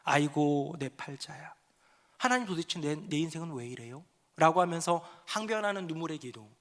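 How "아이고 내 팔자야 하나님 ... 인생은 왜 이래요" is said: despairing lament. Acted. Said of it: "낙담과 체념의 눈물의 기도입니다".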